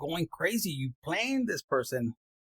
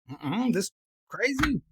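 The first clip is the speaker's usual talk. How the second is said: drawn-out disapproval; 3 semitones higher, slower than usual. Acted. Finding out partner is crazy.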